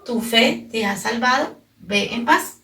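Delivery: slow, weighty words of Jesus; solemn blessing. Acted. Jesus tells the repentant woman, slow and solemn. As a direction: bless her, slowly, giving each word weight. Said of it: "y por eso Jesús le dijo".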